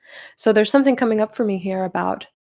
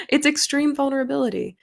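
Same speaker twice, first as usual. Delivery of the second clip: high, hyped announcer voice; monster truck ad; 6 semitones higher than usual. Retold or imitated. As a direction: keep the monster truck ad going. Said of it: "monster truck voice".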